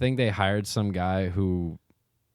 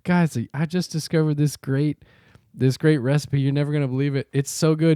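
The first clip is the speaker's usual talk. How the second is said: high, eager video-host impression; excited girl online; 7 semitones higher than usual. Girl shows off her recipe to followers, imitated gushing. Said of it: "this girl who goes".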